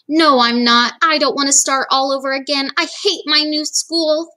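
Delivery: put-on a touch of a sulky child, slowing at the end; stubborn girl digging in, lightly voiced; whiny protest. Sarah refusing her dad, mildly whiny.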